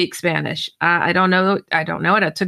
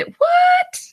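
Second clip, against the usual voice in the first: shocked. Retold or imitated. Disbelief at friend's story.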